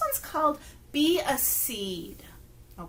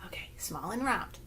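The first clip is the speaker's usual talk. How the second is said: whisper; 6 semitones lower, 10 dB quieter than usual. Shown as a demonstration. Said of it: "whispering the seed part".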